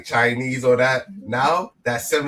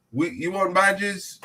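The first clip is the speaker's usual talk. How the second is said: movie quote; 6 semitones higher, slower than usual. Retold or imitated. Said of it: "I think it was Bad Boys".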